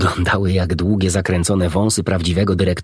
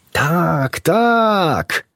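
excited cry; 11 semitones higher than usual. A narrator's reading. Animals cheering for the doctor's tale, high excited cry. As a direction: shout agreement together. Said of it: "wykrzyknęło całe towarzystwo".

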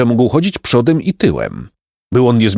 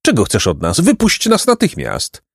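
shout; 6 semitones higher than usual. Acted. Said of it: "krzyknął".

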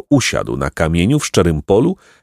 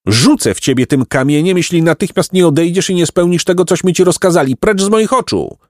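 furious shout; 10 semitones higher than usual. Acted. Jacek threatening the old man with a stone. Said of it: "chwycił kamień i krzyknął".

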